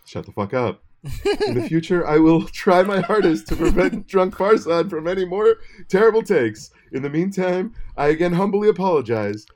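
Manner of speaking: mock solemn public apology; hammed-up sincere apology; fake apology. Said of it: "N P R serious tone".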